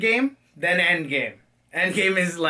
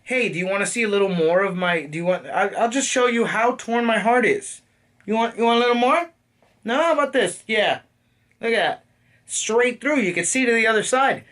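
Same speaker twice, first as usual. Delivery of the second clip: higher, fast, quippy Black Widow bit; mock Black Widow; 4 semitones higher than usual. Reviewer mimics Black Widow's wisecracking, as a higher, quick quip. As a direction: toss off the pain as a cheeky joke. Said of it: "every word out of her mouth is like".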